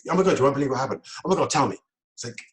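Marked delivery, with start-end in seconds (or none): 0.1-1.0 fast, louder, breathless with news; excited gossip. Retold or imitated. Friend bursting with news. 1.2-1.8 louder, eager reply that joins their energy; matching excitement. Shown as a demonstration. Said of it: "you've jumped on the thought train".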